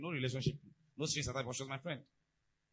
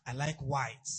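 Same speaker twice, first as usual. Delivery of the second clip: dreamy wife; 3 semitones lower, 4 dB louder, slower than usual. Retold or imitated. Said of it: "she'll just smile. Say".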